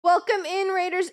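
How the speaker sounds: lightly high, cute greeting; a hint of a cute streamer voice; cute anime streamer.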